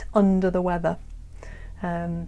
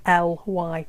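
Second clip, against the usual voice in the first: spelling out slowly; slower than usual. Shown as a demonstration. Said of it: "So poor".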